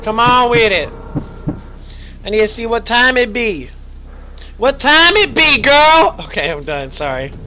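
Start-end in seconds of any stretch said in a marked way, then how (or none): 2.2-6.2 put-on sass the girl, asking the time; feisty sass. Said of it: "I had to get a little feisty there".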